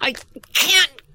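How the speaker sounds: voice squeezed by effort. Voice acting tip: a line said while twisting a jar open, strained. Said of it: "would actually hold something and twist it and go".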